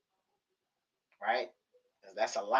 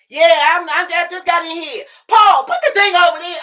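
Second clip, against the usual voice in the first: high, loud mock mom voice; imitating mom; 10 dB louder than usual. Daughter voicing mom just home from hospital, high and loud.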